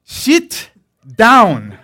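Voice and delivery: father barks at sons in crowded office; barked order. Retold or imitated. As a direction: command them to sit, full volume. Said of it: "He goes like this".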